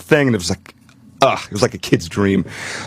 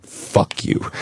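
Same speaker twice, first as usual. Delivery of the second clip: whispered defiance; 5 dB quieter than usual. Retold or imitated. Defying a man threatening to stab.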